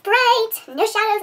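exaggerated emphasis. Mimicking the lit side of face.

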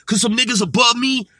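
mock hard rambling, stuttering over filler words; put-on tough rapper talk, hurried in bursts. Vlogger mocking how Shotty had to ramble, a rapper impression. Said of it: "I'm gonna sound like a rapper".

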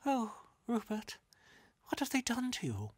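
put-on high-pitched little girl's concern; a young sister fussing over her brother; tender little sister. A narrator's reading. Little sister voiced in story.

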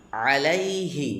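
আলাইহি opening on a throaty Arabic ayin; ayin from deep inside. Shown as a demonstration. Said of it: "আইন একটু ভিতর থেকে আসবে".

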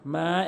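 মা with its vowel lengthened one beat; one-alif madd. Shown as a demonstration. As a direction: stretch the a of মা briefly. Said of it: "এক আলিফ টানবেন".

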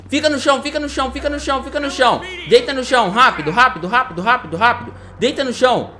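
loud, high barked orders to stop; shouted police commands. Acted. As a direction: yell at them to freeze and lie down. Police roleplay ordering suspects down.

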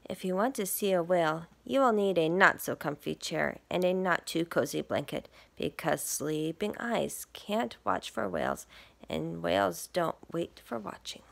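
lively picture-book read; reading to children. Acted. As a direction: read it to little listeners. Reads picture book aloud.

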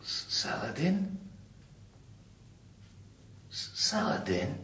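hushed, trembling question; stammering disbelief. Acted. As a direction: stammer the name in dread. Recognising his lost cat.

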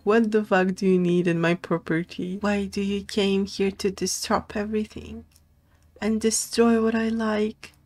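a hint of an indignant homeowner; lightly voiced angry coyote. Streamer voicing the watching coyote, mild mock anger. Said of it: "He's like".

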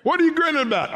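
high, fast teasing question; mock-curious asking; playful question. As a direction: tease them into joy. Acted question.

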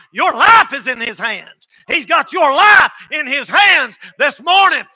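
slow, loud, building preacher's cry; preaching shout. Real, not acted. Preacher warning the congregation, slow building shout. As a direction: bring it up to a shout.

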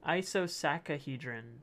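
ISOSACAHEDRON sounded out slowly with an extra "ka" in the middle; slow, deliberate attempt at ISOSACAHEDRON; trying a pronunciation. Shown as a demonstration. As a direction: have a careful go at ISOSACAHEDRON, stretching it out. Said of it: "let me try pronouncing that".

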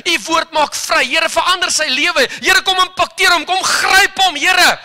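prayer climbing to a loud, high cry; fervent prayer rising from plea to a cry; building prayer. Retold or imitated. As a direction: pray harder and harder until you shout. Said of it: "Ek sê".

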